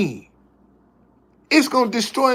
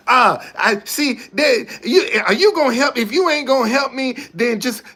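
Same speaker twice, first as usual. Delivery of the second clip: louder, higher, indignant beggar snapping back; mock angry beggar; 4 semitones higher, 3 dB louder than usual. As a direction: play the beggar turning on him, raised voice. Acted beggar getting angry.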